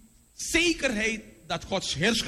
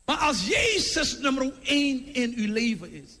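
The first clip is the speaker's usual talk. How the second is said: forceful preaching; 3 semitones higher than usual. Real, not acted. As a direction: preach it with mounting conviction. (bevlogen, krachtig preken)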